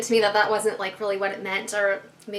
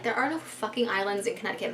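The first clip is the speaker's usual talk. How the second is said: inner thought; 6 dB quieter than usual. Retold or imitated. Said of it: "That's, like, what I'm thinking".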